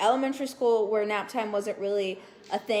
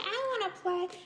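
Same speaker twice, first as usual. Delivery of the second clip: put-on higher pleading kid voice; whiny little kid; 10 semitones higher, 4 dB quieter than usual. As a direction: ask like an eager little sibling. Kid sibling voiced in story.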